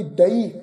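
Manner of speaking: ਦਈ said as a clear model word, "da-ee"; correct pronunciation. Shown as a demonstration. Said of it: "ਇਸ ਸ਼ਬਦ ਦਾ ਉਚਾਰਨ ਵੀ ਅਸੀਂ ਕਰਾਂਗੇ ਜੀ". (ਦਈ ਦਾ ਸਹੀ ਉਚਾਰਨ)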